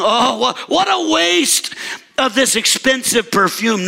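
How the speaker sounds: mild mock dismay, pitch leaping on "waste"; mock disapproval. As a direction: lightly act the scandalized religious expert. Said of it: "becoming the religious experts in the room and saying".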